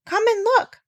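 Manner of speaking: high, bright urging to come see; eager call. A narrator's reading. Dab Dab urges the doctor below, eager call. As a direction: pull him along with delight.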